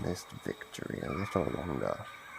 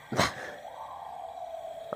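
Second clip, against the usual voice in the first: breathy villain laugh. Acted. Monster gloats, breaks free.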